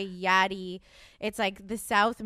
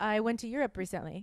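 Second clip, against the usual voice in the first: deadpan, softer fake European accent; pretend European accent; 6 dB quieter than usual. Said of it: "I just talked in accent".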